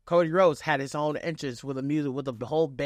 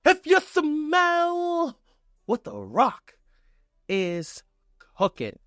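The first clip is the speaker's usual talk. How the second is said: drawn-out, much higher and louder catchphrase call; The Rock catchphrase; 11 semitones higher, 3 dB louder, slower than usual. Retold or imitated. Recapping the show's big moment, a slow, high, loud catchphrase call. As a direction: belt it out slowly like the People's Champ. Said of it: "you hear that emphatic".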